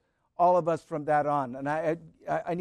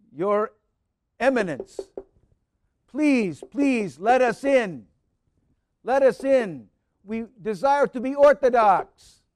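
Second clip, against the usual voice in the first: raised, begging plea at the door; earnest raised pleading; 3 semitones higher, 5 dB louder than usual. Retold or imitated. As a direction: beg to be let in, voice lifted. Pleading at patriarch's door, retold.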